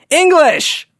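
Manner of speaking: high, sudden panicked yell. Retold or imitated. Tourist freaking out at audio guide woman, panicked yell. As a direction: blurt it out, freaked out. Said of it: "here I've just yelled English".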